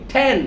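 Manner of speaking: "ঠ্যান" starting on a puffed t; aspirated T. Shown as a demonstration. Teacher drilling the T sound, aspirated "ঠ্যান". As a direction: release the t of "ঠ্যান" with air. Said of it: "ঠি উচ্চারণ করার সময়".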